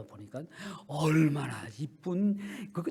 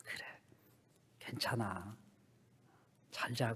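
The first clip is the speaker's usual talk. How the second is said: whispered goodnight, much softer; gentle whisper; 4 semitones lower, 8 dB quieter, slower than usual. Acted. Father whispers goodnight to daughter, hushed. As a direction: breathe it like a lullaby.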